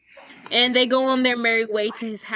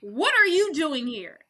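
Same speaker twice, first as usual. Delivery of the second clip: mock shock; 5 semitones higher than usual. Dean shocked to meet daughter.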